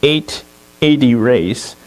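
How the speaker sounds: English professor granting a grudging favour; measured English schoolmaster accent. Acted. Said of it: "do my best English accent".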